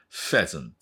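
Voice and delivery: "pheasant" begun with a long, airy F; clear F sound. Shown as a demonstration. Teacher showing that PH sounds like F, clearly articulated. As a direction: blow a clear F to start "pheasant". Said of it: "Fの音ですから".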